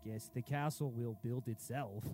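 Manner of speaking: loud, mocking the lazy workers; mocking shout. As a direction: yell the workers' excuse, scornful.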